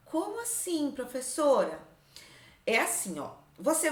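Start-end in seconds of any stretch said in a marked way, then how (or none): 0.1-1.8 mildly puzzled, small-voiced question; puzzled pupil. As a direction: lightly play a pupil asking the teacher.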